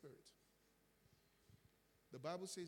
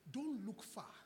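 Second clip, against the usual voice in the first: higher and louder, punch DON'T; emphatic exhortation; 6 semitones higher, 5 dB louder, slower than usual. Acted. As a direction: press the warning home to the church. Preacher exhorting congregation.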